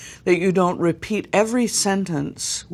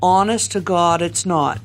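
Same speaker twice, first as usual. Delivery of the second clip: Boston accent. Shown as a demonstration. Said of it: "you've changed the place in the mouth".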